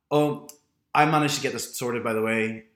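imitating the coworker's smug update; smug colleague. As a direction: announce it smugly. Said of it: "then she goes".

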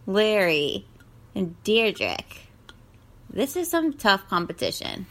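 upbeat contest host. Acted. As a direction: present the contestants like a show host. Hosting a contest.

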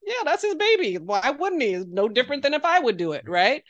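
matter-of-fact retort. Retold or imitated. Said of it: "And I'm like".

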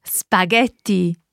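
slow Italian "Spaghetti" for learners; proper Italian accent. Shown as a demonstration. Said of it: "real proper Italian accent".

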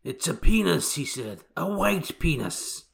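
high-pitched mock audiobook line, breaking with laughter; laughing parody read.

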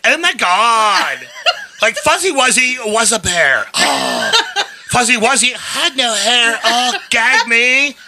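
put-on Valley Girl. Shown as a demonstration. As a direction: drag the words out like a bored Valley Girl. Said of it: "Valley Girl".

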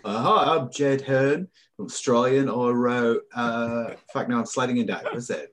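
badly faked Australian accent, losing hold of it. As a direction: attempt an Australian accent and let it slip. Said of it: "better than your Australian one".

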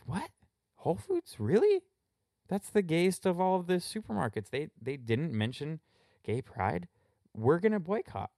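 high, shocked mock outrage. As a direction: squeal it like a scandalized shopper. Mock outraged activist, high pitch.

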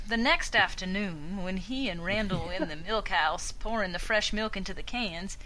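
slow, lightly Southern narrator; little southern drawl. Acted. Narrator doing it slow for the group, light Southern drawl. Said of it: "like a little southern drawl".

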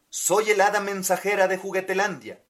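a hint of a bright fairy announcing herself; fairy godmother. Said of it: "contestó".

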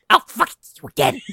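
high, loud mock shout; hammed-up angry yell. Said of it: "Yells again".

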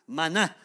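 "maná" con acento agudo en la última A; "maná" cargando el golpe en la segunda sílaba; acento en la A final. Shown as a demonstration. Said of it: "maná con tilde en la A". ("maná", acento en la última sílaba)

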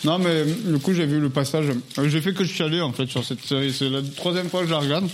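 talking with mouth full; words through a mouthful of food. Real, not acted. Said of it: "je parle la bouche pleine".

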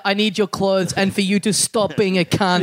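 mock action-film cyborg demand; hint of an Austrian robot accent; Terminator. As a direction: demand it like a killer robot, lightly done. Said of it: "That's right, the Terminator".

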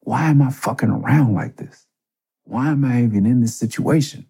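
frustrated inner voice. Retold or imitated. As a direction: berate yourself in a panic. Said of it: "I was like".

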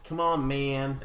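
drawn-out hippie plea. Acted. Showing the hippie voice to co-host, lightly done. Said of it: "hippie voice".

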